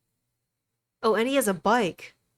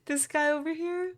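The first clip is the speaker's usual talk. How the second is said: mock incredulous; 10 semitones higher than usual. Real, not acted. Mocking character pose.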